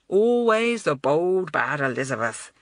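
teasing Julian. A narrator's reading. Julian teasing, ruffling her hair.

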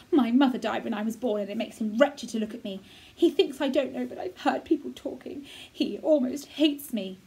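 a touch of wounded bitterness; a boy telling Mary his father can't bear him; bitter boy. Acted. Colin voiced by reader.

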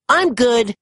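high, bright reassurance; smiling after the fall; cheerful with a smile. A narrator's reading. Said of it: "he announced with a smile".

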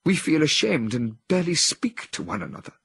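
a woman in a trance, full of anguish. A narrator's reading. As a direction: confess her shame and despair. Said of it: "continued in anguish".

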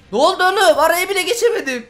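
sudden high, loud disbelief; stunned and loud; shocked outburst. Real, not acted. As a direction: yelp it out as if just killed. Dies suddenly in the match.

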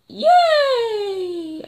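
high laughing cheer; loud high laughing yay; gleeful yay. Real, not acted. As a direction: gloat with a laugh.

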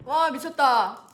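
loud, slow pained exclaim; pained drawn-out. Real, not acted. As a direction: drag it out through the sting. Sour sting in the nose.

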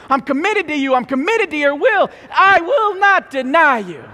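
high, loud earnest vow; fervent protest. Acted. Peter vowing to Jesus he will never deny him, loud fervent. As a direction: swear loyalty with full force. Preacher acts Peter's boast.

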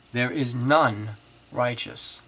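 each none leaned on, slow and loud; emphatic scripture reading. Acted. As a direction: proclaim the verse word by word. Reads scripture aloud emphatically.

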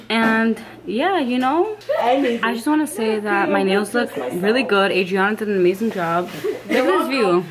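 reality tv confessional. Acted. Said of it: "I'm doing a confessional right now".

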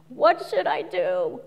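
slow, inward what should I do; self-absorbed worrying; navel-gazing. Shown as a demonstration. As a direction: ask it slowly while staring at your navel. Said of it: "Looking at the navel".

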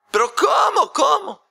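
a high, loud, anguished protest; father refusing to accept the match, crying out high and loud; disbelieving outcry. Acted. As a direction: cry out in disbelief. Father cannot believe it.

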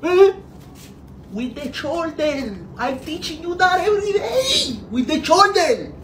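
high-pitched, straining sideline holler; exasperated coaching. Acted. Father repeating the shoulder lesson from the sideline, exasperated. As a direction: drill it in with rising exasperation.

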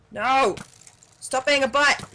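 loud annoyed shout at the mob; 1 frustrated yell. Real, not acted. Gamer yells at a mob attacking him, annoyed shout. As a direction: yell it at the game, exasperated.

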